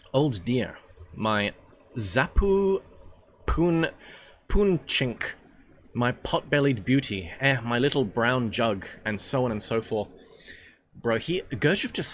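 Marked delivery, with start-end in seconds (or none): 0.1-8.9 hammy Russian character voice; Russian drinker's pet names. Acted. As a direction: relish each silly endearment.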